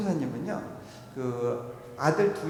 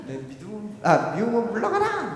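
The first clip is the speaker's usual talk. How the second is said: shouted command; 5 semitones higher, 3 dB louder than usual. Retold or imitated. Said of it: "막 외치면서".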